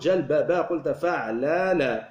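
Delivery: slow, measured جلبب and فعلل; syllable by syllable. Shown as a demonstration. Teacher matching a word to its pattern, syllable by syllable.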